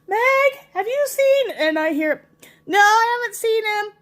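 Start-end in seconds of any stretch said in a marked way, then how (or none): 0.1-1.5 higher, sing-song call to the next room; mock-innocent call. Calling out to the child. 2.7-3.9 put-on higher, childlike reply; lightly voiced small child; little girl.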